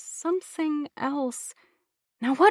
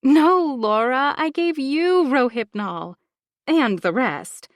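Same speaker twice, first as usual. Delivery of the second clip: slow, higher, condescending gloat; 5 semitones higher, 3 dB louder, slower than usual. Acted. Bronwyn gloating over drugging Laura, slow and superior. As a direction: savour it like a villain.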